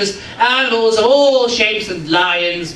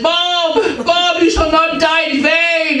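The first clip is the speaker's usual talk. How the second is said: mock grieving; 8 semitones higher, slower than usual. Owner mourns dead hamster.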